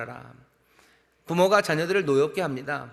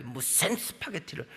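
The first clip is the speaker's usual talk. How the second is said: slow, softer scoff from a bossy parent; a hint of a dismissive parent; 7 dB quieter, slower than usual. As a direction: wave away the child's choice. Domineering parent mocks child's choice.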